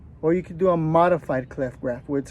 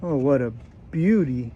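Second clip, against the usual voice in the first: put-on Australian accent; 4 semitones lower than usual. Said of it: "I get this Australian accent".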